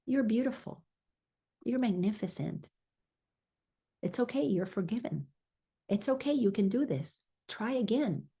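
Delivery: soft, tender inner voice reassuring the listener; gentle reminders. Acted. Preacher voicing the inner voice of God to her congregation, soft and gentle. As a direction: speak softly, like a kind voice inside forgiving you. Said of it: "the gentle reminders".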